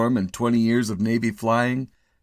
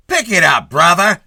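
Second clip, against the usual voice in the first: loud, higher cop barking; cop snapping; 10 semitones higher, 12 dB louder than usual. A narrator's reading. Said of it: "snapped a cop".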